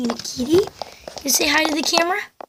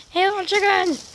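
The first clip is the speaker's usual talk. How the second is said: cooing at chicks; 6 semitones higher, 4 dB quieter than usual. Real, not acted.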